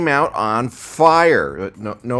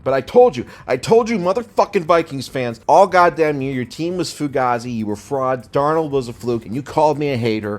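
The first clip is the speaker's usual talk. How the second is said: loud, higher gloating rant at rival fans; 4 semitones higher, 4 dB louder than usual. Real, not acted. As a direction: shout it down at the doubters. Ranting at Vikings fans.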